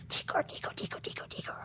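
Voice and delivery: whispered creepy chant; gremlin whisper. Retold or imitated. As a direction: hiss it like a gremlin. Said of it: "Stripes like".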